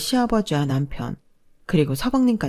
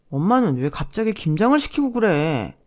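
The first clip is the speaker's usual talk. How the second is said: grumbling son. Acted. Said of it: "서방님이 툴툴대자".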